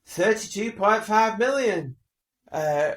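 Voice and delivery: mock a TV host's big finish, dragged out; hammed-up slow announcer cry, high and loud; mocking presenter shout. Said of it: "Like that".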